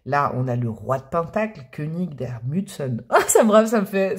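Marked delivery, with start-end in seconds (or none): 1.7-3.0 slow, softer attempt at German; careful French-accented German. Real, not acted. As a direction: sound out the German slowly. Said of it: "ça me fait réviser mon accent allemand".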